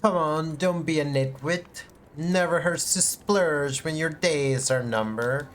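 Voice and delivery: lightly voiced mocking merchant; a hint of a sneering trader; Dark Souls merchant. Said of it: "compared to the merchant in Dark Souls".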